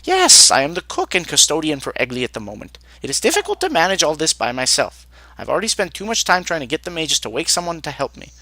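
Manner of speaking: mildly irritated, overworked cook. Acted. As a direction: start forcefully, then grumble about doing it all alone. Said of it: "He looks at you with irritation".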